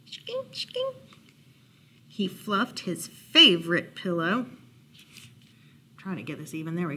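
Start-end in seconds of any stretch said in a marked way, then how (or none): 0.1-1.0 high, soft "skink, skink"; tiny sound effect. A narrator's reading. Narrator voicing a noise in the story, high little sound effect. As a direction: make a small, high-pitched noise.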